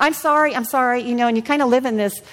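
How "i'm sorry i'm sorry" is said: habitual sorry. Retold or imitated. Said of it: "it comes out of your mouth".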